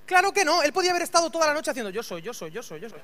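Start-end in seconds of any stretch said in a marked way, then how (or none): 1.9-3.0 bajito y rápido, en bucle; repítelo cada vez más bajo; repetición monótona. Retold or imitated. Repetición imaginada de toda la noche. (retahíla grave que se va apagando)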